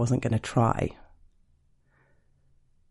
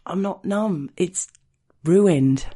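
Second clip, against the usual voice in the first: panicked; 5 semitones higher, 4 dB louder, slower than usual. Acted. Realizes numbness wore off, panics.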